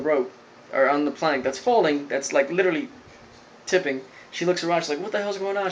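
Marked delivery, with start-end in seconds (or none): 5.0-5.7 high, soft mock alarm; lightly acted bewildered panic; retold freak-out. Girl waking on a tipping plank, mock freaking out. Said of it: "She starts freaking out".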